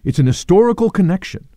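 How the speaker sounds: "historical" pushed up in pitch; stress on HISTORICAL. Real, not acted. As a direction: raise and underline "historical". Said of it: "I want to emphasize that".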